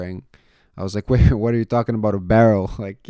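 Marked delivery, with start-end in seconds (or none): 1.1-2.7 confused disbelief. Retold or imitated. Confused reply to instructor.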